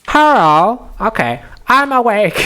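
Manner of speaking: loud, high, hammed-up Asian accent; caricatured Asian accent. Second try at the librarian's voice, caricatured Asian accent. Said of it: "do that as general racist Asian accent".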